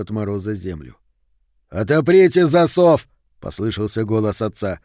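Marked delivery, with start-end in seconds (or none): 1.7-3.1 loud, high, drawn-out shout; raised voice to carry through a closed door. A narrator's reading. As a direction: call urgently to those inside. Father shouts through barred door.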